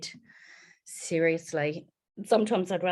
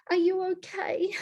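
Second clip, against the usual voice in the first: whisper; 11 semitones higher than usual. Retold or imitated. Mother whispering to her found daughter, tender. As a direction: ask it gently under the breath.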